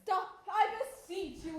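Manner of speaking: giggling, pleading in jest; laughing tease. Acted. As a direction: beg him to stop, laughing. Teasing Gonzalo.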